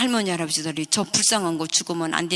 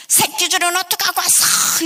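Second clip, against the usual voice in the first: high, loud scolding stepmother; angry stepmother; 10 semitones higher, 6 dB louder than usual. Retold or imitated. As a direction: snap at the husband accusingly. Stepmother scolding father sharply.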